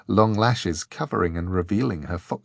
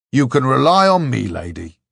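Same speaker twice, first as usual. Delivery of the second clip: earnest; 4 semitones higher, 7 dB louder than usual. A narrator's reading. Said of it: "said Hammersmith earnestly".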